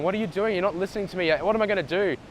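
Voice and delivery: whiny granddaughter begging to be heard; upset granddaughter. Acted. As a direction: plead like a frustrated granddaughter.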